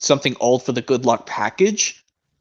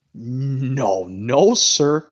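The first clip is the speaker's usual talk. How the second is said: nervous; much slower than usual. Acted. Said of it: "said Oliver nervously".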